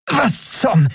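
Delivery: sharp high startled break-off; startled cry. Acted. Elin jolted by a hit, startled high cry. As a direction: caught off guard mid-word.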